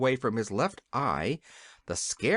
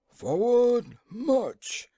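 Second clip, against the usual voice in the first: loud, much higher yell of command; 9 semitones higher, 4 dB louder, much slower than usual. A narrator's reading. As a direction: colonels yelling the order down the line. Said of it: "yelled the colonels".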